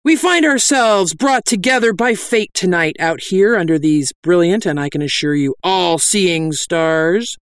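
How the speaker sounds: grand sermon delivery, drawing out the end; mock sermon cry. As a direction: declaim like a preacher, starting high. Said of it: "I cried".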